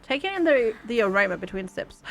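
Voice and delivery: calm, even storyteller read; story narration. Acted. Streamer reading the game's story to viewers, narration voice. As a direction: narrate the morning like a novel.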